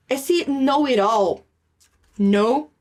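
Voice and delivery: teacher models know-it-all slowly; slow model phrase. Shown as a demonstration. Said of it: "ao pé da letra é sabe isso tudo".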